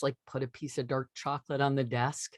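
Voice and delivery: chuckling through the words; fond laugh while telling it. Real, not acted. Telling the host about husband's chocolate, laughing softly.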